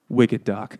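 put-on New England accent, R dropped; shitty New England accent. Reading a beer name aloud, bad New England accent. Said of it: "That's my shitty New England accent".

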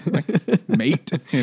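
put-on laughing British pirate accent on "mate". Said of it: "in, like, a British pirate sense".

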